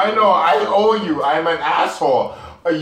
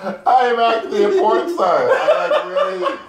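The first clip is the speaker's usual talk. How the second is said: laughing. Real, not acted. Laughing boast to friends.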